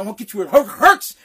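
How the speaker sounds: mock threat catching on "hurts"; imitated stutter. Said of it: "he stuttered, he had a lisp".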